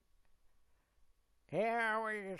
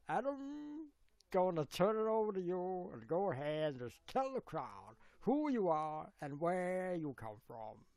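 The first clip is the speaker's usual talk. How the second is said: announcer; 4 semitones higher, 6 dB louder than usual. Acted. Acts out a host's introduction.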